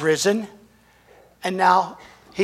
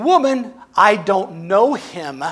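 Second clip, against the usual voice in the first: forceful denial; 4 dB louder, slower than usual. Retold or imitated. Peter denies to servant girl.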